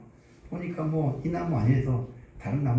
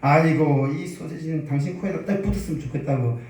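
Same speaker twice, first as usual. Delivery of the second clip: angry wife. Acted. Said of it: "그래서 화를 내면서".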